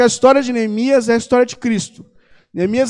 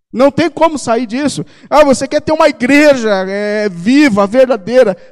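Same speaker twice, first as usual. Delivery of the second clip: raised preaching voice, pressing each point home; 2 semitones higher than usual. Acted. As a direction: preach it with rising conviction to the church. Pregação com mais força. (pregação enfática e fervorosa)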